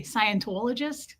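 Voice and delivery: Scientologist with a rounded Northeast O; questioning, lightly Northeast-accented Scientologist. Shown as a demonstration. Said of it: "did I just have a Northeast accent?".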